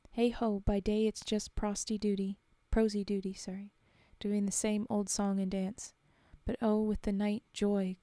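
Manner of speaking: steady rhythmic ballad reading; reading verse aloud to an audience; poem recital. A narrator's reading. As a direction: recite it like a ballad, keeping the beat. Reads a war ballad aloud.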